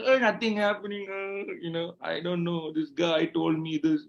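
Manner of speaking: hammed-up helpless moaning; mock tearful complaint. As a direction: drag it out like a sorry complainer. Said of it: "Many people are putting the tears".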